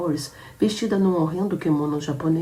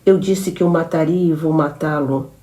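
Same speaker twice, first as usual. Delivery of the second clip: louder, firm threat; cold threat; 6 dB louder than usual. Acted. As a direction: promise to kill him, firmly. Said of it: "continuou ela". (ameaça firme e alta)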